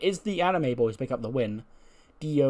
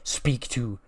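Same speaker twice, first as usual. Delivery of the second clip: slow, stern warning, a bit louder; lightly voiced angry Becky; 4 dB louder, slower than usual. Becky scolding Kelly after the slap, mildly stern. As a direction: lay down the law slowly. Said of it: "And she goes".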